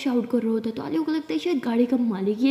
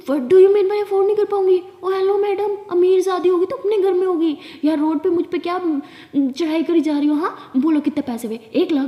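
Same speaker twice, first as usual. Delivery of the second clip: loud and high, indignant shouting; acted shouting match on the road, raised pitch and volume; furious outburst; 5 semitones higher, 5 dB louder than usual. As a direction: blast the rich lady back, voice up high. Aliya blows up at rich lady.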